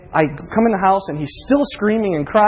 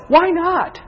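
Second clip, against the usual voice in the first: high, raised cry of protest; anguished outcry, pitched way up; anguished questioning; 10 semitones higher than usual. Retold or imitated. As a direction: demand an answer from God, re-enacted. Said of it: "And my thought is".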